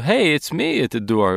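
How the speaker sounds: breezy caller at the door, lightly acted; casual greeting. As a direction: announce yourself offhandedly to someone inside. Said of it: "that we might use as humans".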